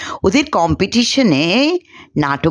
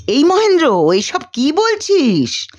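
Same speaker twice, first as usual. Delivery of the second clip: startled, raised voice; surprised cry; 6 semitones higher than usual. Acted. Sharmila, shocked by Mahendra's lines, calls out in surprise. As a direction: call out in disbelief. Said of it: "Sharmila বিস্ময়ে চেঁচিয়ে ওঠে".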